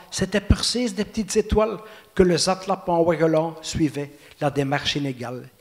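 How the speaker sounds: lilting verse delivery, a pause after each phrase; poem recitation. Acted. Poet reciting his ballad of old Brussels, measured recitation.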